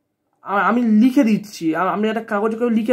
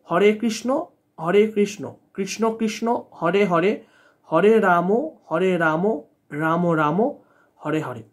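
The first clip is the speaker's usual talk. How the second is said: measured mantra recitation, falling lower toward the close; 3 semitones lower than usual. Shown as a demonstration. Teacher says the mantra aloud for viewers, reciting. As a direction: recite it in short phrases, dropping gradually. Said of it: "আমি মুখে বলে দিচ্ছি".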